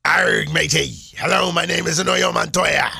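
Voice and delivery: lightly voiced pirate, whispered growl to start; pirate Inigo Montoya. Host plays Princess Bride line as a pirate. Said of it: "Here we go".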